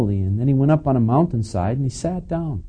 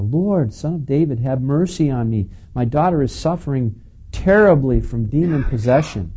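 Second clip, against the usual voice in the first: crying out; 4 semitones higher, 4 dB louder than usual. Acted. Mother's plea reread aloud.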